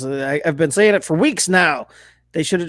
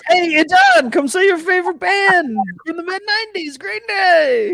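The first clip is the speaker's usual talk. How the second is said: mock Lake Tahoe promoter; 12 semitones higher than usual. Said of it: "They're like".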